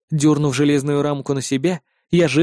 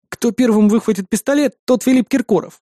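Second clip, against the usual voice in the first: higher, smirking jab; 6 semitones higher than usual. A narrator's reading. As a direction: tease her with a grin in the voice. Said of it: "усмехнулся я".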